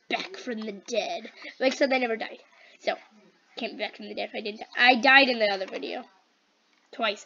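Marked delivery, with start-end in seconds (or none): 0.1-1.3 slow, spooky announcement of a comeback; mock dramatic. Player announcing a return to viewers, mock dramatic. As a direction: draw it out like a returning villain.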